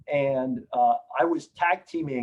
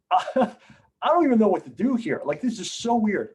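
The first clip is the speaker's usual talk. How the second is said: retold shock; 6 semitones higher than usual. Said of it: "I was literally shocked".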